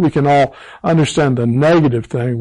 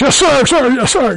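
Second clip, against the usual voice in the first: very high, jeering, mocking voice; 10 semitones higher than usual. Retelling how a man at the table stood up and greeted him, mockingly retelling a yes-sir. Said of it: "just real mockingly".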